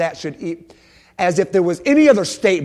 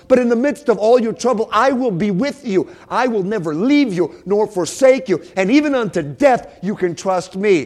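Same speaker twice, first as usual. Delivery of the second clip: higher, urgent preacher voice; impassioned preaching; 7 semitones higher, 5 dB louder than usual. Acted. Preacher voicing God's promise to the church, impassioned. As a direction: press each promise home with force.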